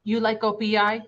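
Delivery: a hint of an Asian accent. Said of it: "in his very thick Asian accent".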